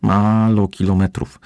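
put-on high, slow childish snort of a voice; a gleeful little kitten scoffing at the distance; cheerful little one scoffing. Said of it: "prychnął radośnie Precelek". (radosne, piskliwe prychnięcie malucha)

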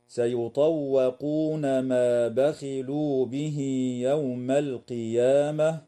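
slow chanted recitation stopping on القيامة; Quran recitation. Shown as a demonstration. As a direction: recite slowly, stop at القيامة. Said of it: "يجوز الوقف على كلمة القيامة". (تلاوة مجودة مع الوقف على القيامة)

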